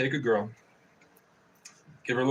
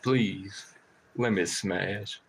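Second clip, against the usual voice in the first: pleading crow voice; 4 semitones lower, 4 dB quieter, much slower than usual. Retold or imitated. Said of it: "And then I go".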